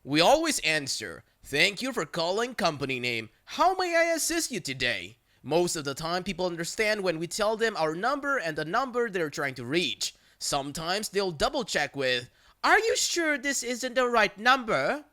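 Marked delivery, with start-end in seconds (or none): 1.4-5.2 chirpy call-center greeting; answering the work phone. Retold or imitated. Customer service phone greeting. 12.6-15.1 higher skeptical caller voice; mock a confused caller double-checking; a hint of a suspicious caller; doubting caller.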